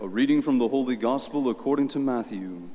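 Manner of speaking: solemn gospel reading, echoing church; cathedral echo. Acted. Priest proclaims the gospel at Mass.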